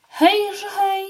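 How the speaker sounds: high squeaking little mouse; high mouse squeak calling out; squeaky mouse voice. A narrator's reading. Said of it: "pisnęła znowu".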